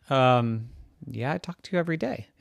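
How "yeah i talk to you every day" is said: raised, louder put-upon cat voice; the misunderstood pet airs his grievances; complaining cat. Acted. Cat Ted complains to Salim that he never listens, aggrieved cat.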